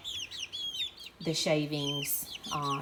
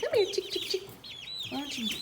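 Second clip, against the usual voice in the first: very high coaxing call, chick chick; calling chickens; faster than usual. Real, not acted. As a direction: sing the call up high to lure them. Coaxing chicks again, higher.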